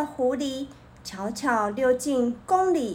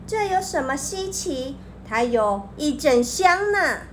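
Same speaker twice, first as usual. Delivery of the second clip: sly. Acted. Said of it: "狐狸狡猾地说".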